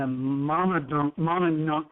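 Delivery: Monadnock sounded out slowly and haltingly, then retried; unsure pronunciation. Real, not acted. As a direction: stumble over Monadnock, feeling out each syllable. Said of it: "how do you say that?".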